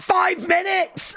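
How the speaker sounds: very high, drawn-out squeal; mock panic. Streamer sees how long until the show, high hammed-up shout. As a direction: shriek the countdown in falsetto.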